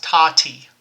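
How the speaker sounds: "Tati" said quickly, syllables run together; said fast. Shown as a demonstration. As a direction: snap out "Tati" real fast. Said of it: "say that real fast".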